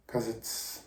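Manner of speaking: choked up. Real, not acted. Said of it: "I'm getting emotional".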